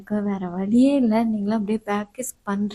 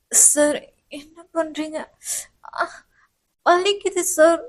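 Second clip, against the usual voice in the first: higher pained cry of hurt; pained student; 4 semitones higher, slower than usual. Acted. Student crying out when the professor bites her lip. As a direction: it hurts, cry out.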